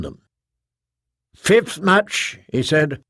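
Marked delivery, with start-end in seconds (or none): 1.3-2.4 booming arena announcer. Acted. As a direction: announce it to the whole stadium. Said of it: "the thunder of his magnified voice boomed".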